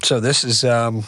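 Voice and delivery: talking through a yawn; words stretched by a yawn. Real, not acted. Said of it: "Are you yawning?".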